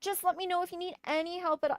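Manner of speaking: high, sugary mock-sweet voice; mocking a neighbour's passive-aggressive apology in a saccharine high voice. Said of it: "very passive-aggressively like".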